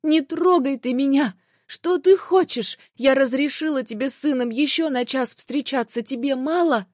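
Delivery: wife pulling free from her ex, angry and high; furious. Acted. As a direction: push him off, voice shooting up.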